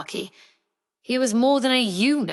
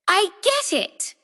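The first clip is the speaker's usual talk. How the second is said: excited; 13 semitones higher than usual. A narrator's reading. Sudden realization, clapping.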